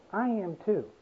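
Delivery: soft surrender. Retold or imitated. Daughter's surrender voiced.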